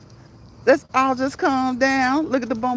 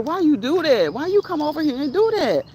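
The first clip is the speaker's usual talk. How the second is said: retold protest; 4 semitones higher than usual. Retelling her protest at a troll.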